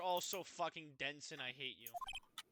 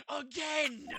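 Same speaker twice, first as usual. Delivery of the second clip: louder, higher repeat; shouted again; 9 semitones higher, 8 dB louder than usual. Acted. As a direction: yell it this time.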